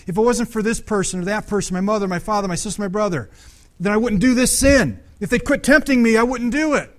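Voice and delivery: hammed-up protest that others tempted him; mock blaming excuse. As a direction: mimic someone whining that it's all their family's fault. Mocking a sinner's blame-shifting excuse.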